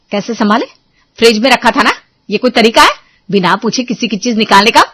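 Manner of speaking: woman argues back with her sister-in-law; angry retort. Acted. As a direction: snap back at her rival. Quarrel continues.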